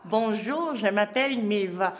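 words round a pencil; speaking with a pencil held in teeth; pencil in mouth. Shown as a demonstration. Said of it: "difficile de parler avec un crayon dans la bouche".

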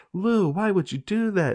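high-pitched, pleading imitation; mock dismay. Friends' dismay acted out.

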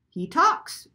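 high, loud mimicking bird; shrieked imitation. A narrator's reading. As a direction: shriek it back like a mocking parrot. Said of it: "shrieked Lena, imitating Missus Croft's voice".

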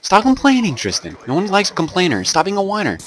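a hammed-up whiny scold; mock whiny scold. Scolding Tristan for complaining, in a high mocking voice.

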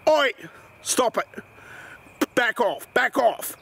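put-on police officer with an English accent. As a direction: order them off in an English accent. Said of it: "English accent, got it, right".

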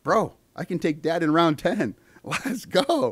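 high, excited mock victory cry; triumphant kid. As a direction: crow like a kid who just won. Kid celebrating beating dad, acted.

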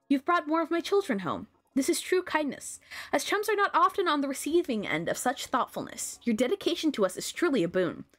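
lightly voiced queen giving formal thanks; gracious queen. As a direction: praise them as a grateful queen.

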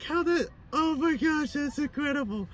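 high amazed exclamation of a stranger in a story; astonished. Retold or imitated. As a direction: gasp it out in wonder.

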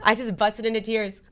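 on the edge of crying as she repeats "busted into tears"; welling up. Real, not acted. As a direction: voice tightening with real tears. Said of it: "I'm gonna cry thinking about it".

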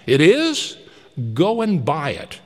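put-on high, loud giddy old man; elated calling out. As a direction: call down to the street overjoyed. Scrooge eager.

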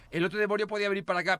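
ordinary delivery

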